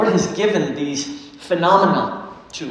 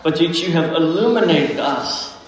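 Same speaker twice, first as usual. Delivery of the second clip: prayer. Real, not acted. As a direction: pray it from the heart, unhurried. Pastor prays before the sermon.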